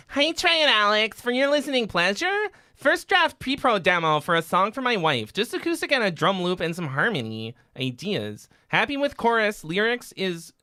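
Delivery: high-pitched, loud put-on Scottish accent. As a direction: read the message in a Scottish accent. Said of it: "You like my Scottish accent?".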